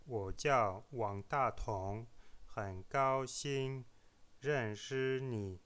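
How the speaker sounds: slow 我叫王大同 with intentionally misplaced Mandarin tones; deliberately wrong tones. Shown as a demonstration. Dialogue with deliberate tone mistakes for learners to spot. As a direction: draw out 很高兴 认识你, each syllable on a wrong tone. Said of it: "des fautes volontaires dans les tons".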